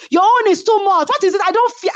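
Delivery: high mocking voice of a ranting housemate; mocking her rant. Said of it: "I heard her said".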